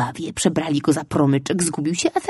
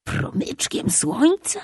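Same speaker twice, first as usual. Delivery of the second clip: slow, high incredulous repeat; can't believe what he heard; disbelieving echo; 9 semitones higher, 3 dB quieter, slower than usual. A narrator's reading. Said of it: "powtórzył z niedowierzaniem chłopiec". (z niedowierzaniem, powoli i wysoko)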